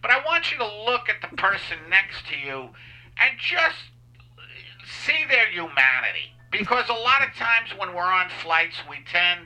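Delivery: stoned pilot PA voice. Pretend. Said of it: "this is the pilot".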